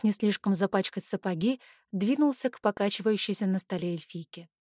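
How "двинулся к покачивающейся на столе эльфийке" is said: usual speaking voice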